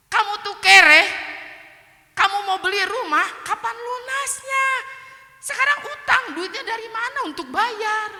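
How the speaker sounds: high-pitched shouted berating, acted out; scornful tirade. Friend doubting the speaker can pay debts, scornful tirade. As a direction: imitate a friend hurling insults at full voice.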